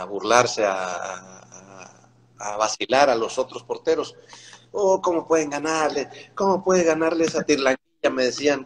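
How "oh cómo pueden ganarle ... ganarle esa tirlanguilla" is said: burla alta de los compañeros; mocking teammates. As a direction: se burlan del chamaco con voz más alta. (imitando la burla de los compañeros)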